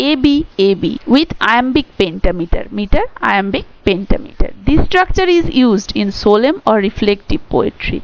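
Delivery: reads English text very slowly, word by word; slow dictation reading. Shown as a demonstration. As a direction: dictate it slowly for students to copy. Reads English textbook definition aloud. (ধীরে ধীরে ডিক্টেশনের মতো পড়া)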